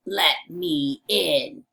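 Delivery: lightly voiced low wolf; deliberate, low demand as the wolf; big bad wolf. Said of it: "The wolf says".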